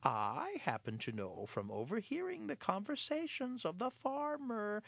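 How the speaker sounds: a spoiled cat telling the mice news; lightly voiced sly cat. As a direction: share the gossip slyly. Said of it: "in his usual, usual sly voice".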